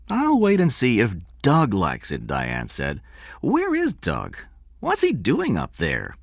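a hint of a fretful woman; lightly voiced woman. Diane voiced as a character.

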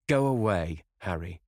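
cried out. Acted. Dorian begging Harry to leave, crying out. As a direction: fling it at him, near tears. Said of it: "cried the lad".

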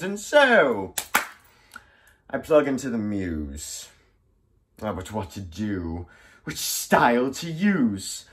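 flamboyant pirate, swinging high and loud into threats; theatrical pirate villain Black Stash. Acted. Black Stash menacing his captive with verse, hammy theatrical villain. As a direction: play a grandiose pirate who fancies himself a poet.

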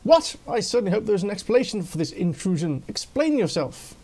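put-out challenge to an intruder; affronted. Acted. Acts out the affronted Quincy's lines.

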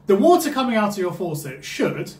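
emphasis on "should" at the end; stress on should. Real, not acted. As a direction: lean on the word "should", then break off. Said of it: "I emphasise the word should".

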